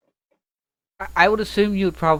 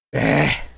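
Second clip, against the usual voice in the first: frustrated sigh; 4 dB louder than usual. Acted. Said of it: "the frustrated sound".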